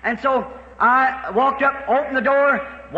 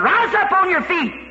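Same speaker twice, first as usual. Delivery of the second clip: commanding call; 6 semitones higher than usual. Retold or imitated. Preacher commands the sick girl.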